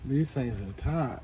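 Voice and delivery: slow drawling hillbilly twang. Pretend. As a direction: lay on a thick hillbilly drawl. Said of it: "My hillbilly voice".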